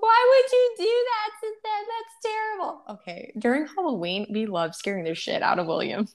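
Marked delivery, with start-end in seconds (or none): 0.0-2.8 mock judgmental parent. Mocking disapproving people.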